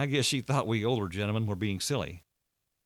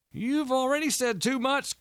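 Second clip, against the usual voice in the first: very high, slow, alarmed scolding; agitated Walter. A narrator's reading.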